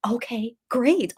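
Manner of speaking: slow, stunned okay great. Retold or imitated. Daughter retelling her stunned reply, slow. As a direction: drag it out, dazed. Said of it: "And I was like".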